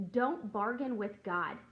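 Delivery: slow, firm quoted verse; preacher quoting Matthew to viewers, slow and firm; scripture read. Shown as a demonstration. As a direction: lay down each word of scripture. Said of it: "it says".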